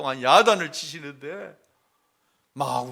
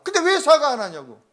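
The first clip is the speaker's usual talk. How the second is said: much higher and louder, reenacting the scolding; scolding mother-in-law; 11 semitones higher, 10 dB louder than usual. Mother-in-law scolding the pastor's wife, high and loud. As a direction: hammer the daughter-in-law with the question. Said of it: "또 제 아내를 나무라게 하시는 거예요".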